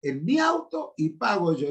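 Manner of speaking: lightly voiced son, pleased; quoting son. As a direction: repeat the son's offer brightly. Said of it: "Me dice".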